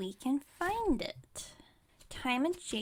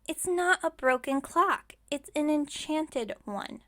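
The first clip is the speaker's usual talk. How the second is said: raised, louder, emphatic correction; indignant correction; 3 semitones higher, 4 dB louder than usual. Acted. Witch corrects customer about the enchanted clock, indignant. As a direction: correct them with some indignation.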